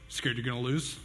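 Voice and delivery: lightly imitated cocky challenge, rising on "lose"; quick taunting comeback. Nephew challenging his uncle to wrestle, mildly taunting. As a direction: toss out a child's instant dare. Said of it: "immediate, like, so quick".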